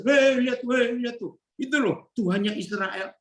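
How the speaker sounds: a hint of scornful onlookers pointing and sneering; mocking Egyptians. Egyptians jeering at Israel's God, mild mocking call. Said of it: "Orang Mesir akan berkata gini".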